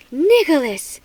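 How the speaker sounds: sharp shout of a name; alarmed call. A narrator's reading. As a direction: mom shouting to stop her son. Mother calls out in alarm.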